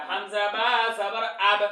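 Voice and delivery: slow, stretched syllables for pupils to repeat; drawn-out spelling drill. Shown as a demonstration. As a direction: spell it out slowly, holding the long vowel. Teacher models spelling for repetition. (টেনে টেনে ধীরে বানান করে পড়া)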